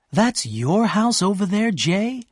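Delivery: high, bright exclaiming with delight; excited cry. A narrator's reading. Daisy exclaims to Gatsby, excited. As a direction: gasp it out, thrilled by the house. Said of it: "she cried excitedly".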